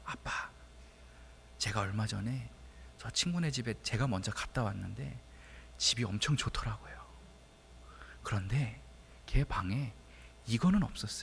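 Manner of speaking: low, secretive whisper. Father retells his child whispering the answer to him, retelling a child's whisper. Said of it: "귓속말로 이렇게 얘기를 하는 거예요".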